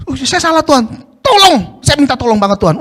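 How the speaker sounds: pushy, insistent plea that orders God; demanding prayer. Shown as a demonstration. Preacher demonstrating a wrong, commanding prayer to God, insistent. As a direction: push the request like a demand. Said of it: "itu merintah Tuhan".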